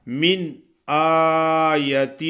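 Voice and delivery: من آیت slow, with a short yaa; correct recitation. Shown as a demonstration. Teacher gives students the correct model, short yaa. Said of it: "یہ صحیح ہے".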